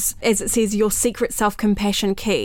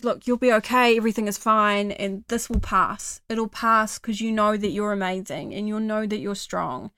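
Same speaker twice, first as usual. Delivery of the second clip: kind encouragement. Shown as a demonstration. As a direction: gently tell yourself it will pass. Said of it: "So be like".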